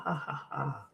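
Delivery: soft mock "ha, ha, ha"; breathy fake chuckle; mimicked laughter. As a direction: imitate their laughing lightly. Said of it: "They're laughing, joking".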